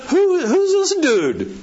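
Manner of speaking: a brash boy mocking the giant's fame; bold shepherd boy. Preacher voicing young David to the frightened army, high and bold.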